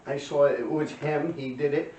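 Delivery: lightly voiced tattling kid, eager; a hint of a kid ratting everyone out; mildly mocking the snitch. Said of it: "And he's like".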